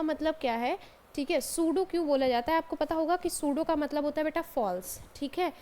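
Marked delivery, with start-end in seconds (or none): none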